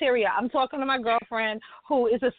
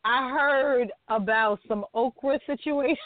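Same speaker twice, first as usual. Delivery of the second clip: slow, sly tease; drawn-out teasing. Acted. Host slowly teasing a cohost about okra. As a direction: savor each word like juicy gossip.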